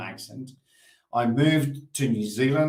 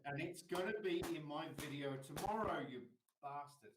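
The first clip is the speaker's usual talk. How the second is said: muttered insult; 2 semitones higher, 17 dB quieter than usual. Real, not acted. Aside insulting the defendant in clip.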